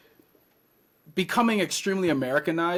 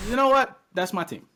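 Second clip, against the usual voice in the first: 1 retold decision; 10 semitones higher, 3 dB louder than usual. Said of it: "I'm like".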